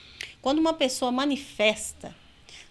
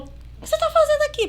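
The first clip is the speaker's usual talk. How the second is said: put-on much higher, bewildered young girl's voice; confused girl; 7 dB louder than usual. Freed girl asking her father why he is there, high and bewildered. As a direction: ask like a lost girl waking up.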